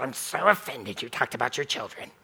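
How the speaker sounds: low, soft mock-offended grumble; mock offended listener. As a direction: play a sulky offended listener. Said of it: "nobody sits there and goes".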